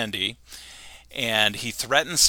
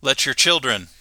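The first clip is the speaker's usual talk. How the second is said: a lightly voiced Homer, a bit higher and louder; lightly voiced Homer lecturing; Homer speech; 4 semitones higher, 4 dB louder than usual. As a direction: preach American freedom, lightly voiced. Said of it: "he says".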